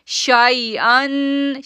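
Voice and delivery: शाइअन chanted slowly and softly, शा not stretched; gentle tajweed chant; soft recitation. Shown as a demonstration. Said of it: "शेई नहीं पढ़ेंगे, शाई पढ़ेंगे".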